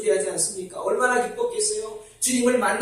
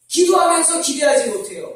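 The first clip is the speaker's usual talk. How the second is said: emphatic preaching; 6 semitones higher than usual. Shown as a demonstration. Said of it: "repeated for emphasis".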